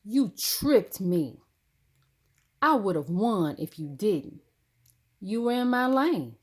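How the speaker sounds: put-on kid's heated complaint after losing the race; puffed-up anger. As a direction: accuse her hotly, like a spitting cat. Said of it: "I puff up again".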